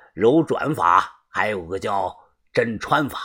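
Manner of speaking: a hint of a smug old hand explaining; boss lecturing. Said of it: "帮主嘴里叼着烟说道".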